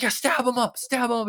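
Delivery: high, loud, manic Australian cartoon shriek; Australian Rick voice. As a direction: squeal it like a bloodthirsty Aussie knife. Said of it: "talks like Australian Rick".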